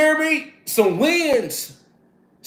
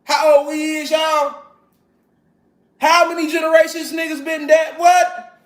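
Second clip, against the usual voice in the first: outraged call; 4 semitones higher than usual. Real, not acted. Preaching outrage at audience.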